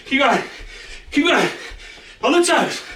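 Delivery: high, driving coach calls; urgent encouragement. Real, not acted. Coach urging tired class on with high, urgent calls. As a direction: push them through the last seconds.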